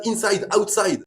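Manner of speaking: Inside Outside in a clumsy French-English accent; title mangled in a French English accent; bad English accent. Shown as a demonstration. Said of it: "mon accent anglais s'est amélioré".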